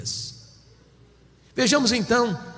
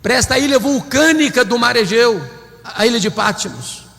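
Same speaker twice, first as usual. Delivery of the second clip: a preacher's dramatic louder retelling; preaching at full force; 4 semitones higher, 6 dB louder than usual. Acted. Preacher to his congregation, fervent full-force preaching. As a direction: build the story with fiery pulpit intensity. Sermon narration of John's exile.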